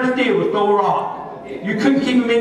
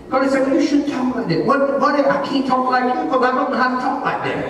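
higher, driving sermon delivery; fired-up preaching; 5 semitones higher than usual. Real, not acted. Preacher answering critics before the congregation, fired-up. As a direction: preach it with raised pitch and steady insistence.

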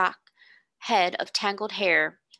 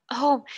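a sharp, higher gasp of surprise; 4 semitones higher, 4 dB louder than usual. A narrator's reading. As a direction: catch your breath on the word. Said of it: "she gasped".

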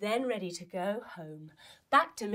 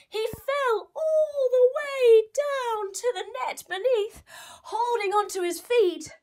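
dramatic fall; 11 semitones higher, 5 dB louder than usual. A narrator's reading. Mouse falls into the net.

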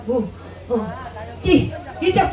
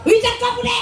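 mock glaring demand; 8 semitones higher than usual. Singer shows fans the glare she was told to use, mock demanding. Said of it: "이렇게 노려보래".

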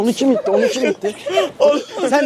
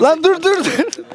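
panicked yelling; 6 semitones higher, much slower than usual. Real, not acted. Shoved toward pool.

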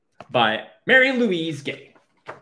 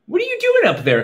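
calling up; faster than usual. Acted. Portia calls up to flying cat.

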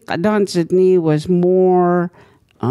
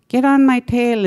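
beaver voice; 9 semitones higher, 6 dB louder than usual. Retold or imitated. Beaver voiced in retold story.

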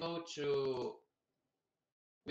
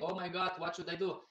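mock sobbing; 3 semitones higher, faster than usual. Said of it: "they're, like, sobbing".

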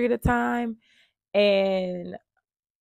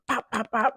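quick popping stab noises, pitched up; imitated stabbing; 4 semitones higher than usual. Woman imitating him stabbing the Ring camera, popping. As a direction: punch out each stab as a sound. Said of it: "stabbing the Ring camera".

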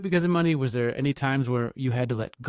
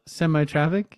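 quizzical; 3 semitones higher than usual. Real, not acted. Co-host repeats the odd word back to his partner, puzzled. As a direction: echo semi-tropic back as a puzzled question.

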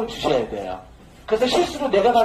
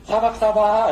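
slow mouth sound demo; 2 semitones higher than usual. Shown as a demonstration. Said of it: "이렇게 입으로 하셔야 돼".

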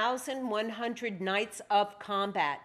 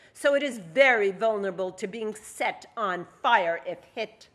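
proud; 7 dB louder than usual. Acted. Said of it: "Lydia said proudly".

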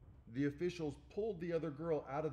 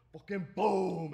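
loud, drawn-out boom, pitched up; shouted slam effect; 6 semitones higher, 11 dB louder, slower than usual. Retold or imitated. Wrestling fan retelling a knockout blow, loud boom. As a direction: boom it out like the impact hitting.

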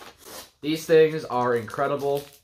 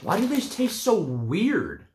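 talking while eating; chewing candy; 6 semitones higher, slower than usual. Real, not acted. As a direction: mouth partly full. Seen 1: Puts candy in mouth at -7; grimaces, chewing with mouth mostly closed.

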